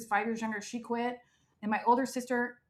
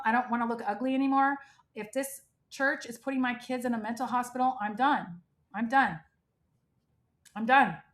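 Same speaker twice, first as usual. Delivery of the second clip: retold crying mother. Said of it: "she was crying and she was like".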